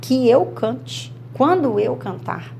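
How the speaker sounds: slow, deliberate conjugation; teacher modelling the subjunctive forms slowly; slow demonstration. Shown as a demonstration. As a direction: lay out "Se eu cantasse, que eu cante. Quando eu cantar." slowly. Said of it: "Agora, olha o subjuntivo".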